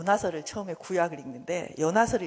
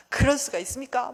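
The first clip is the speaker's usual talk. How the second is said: raised, indignant challenge; angry protest; 4 semitones higher, 5 dB louder than usual. Acted. Jonah challenging God, angrily protesting. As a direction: demand an answer in outrage. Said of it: "그러면서 화를 막 내요".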